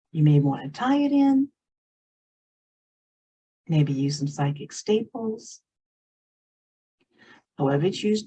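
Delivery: unhurried meditation guide with long pauses; guided meditation. Real, not acted. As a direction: lead them gently inward, leaving space between phrases.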